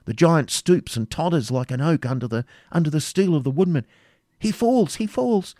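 high-pitched, eager battle report; joyful eagerness. A narrator's reading. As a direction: exclaim with relief and rising excitement. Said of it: "shouted with joyful eagerness".

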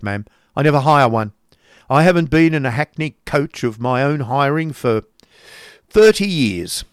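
put-on loud, emphatic old miser; brusque uncle. Uncle boasting he never hires coaches, brusque. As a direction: lay down the law, loud and insistent.

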